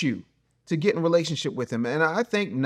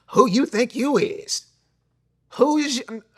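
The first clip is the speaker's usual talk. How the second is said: sassy retort; 9 semitones higher, 4 dB louder than usual. Retold or imitated. Woman snapping at her man.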